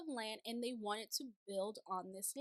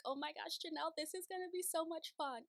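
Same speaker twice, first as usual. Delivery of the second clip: higher-pitched, gushing mock excitement; excited gushing; 5 semitones higher than usual. Viewer cheering on Janelle's RV plan, excited gushing. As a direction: gush in a raised pitch. Acting own thrilled reaction to Janelle.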